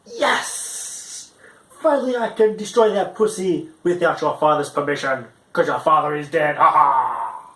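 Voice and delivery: gloating whisper to a cackle; evil glee, then a mock laugh; gleeful villain. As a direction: play it as a cartoon villain who wins. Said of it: "Or I could say".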